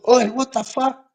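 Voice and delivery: retold yell. Junkie yelling at the man who photographed him, mock shout. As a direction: bark it like an angry stranger.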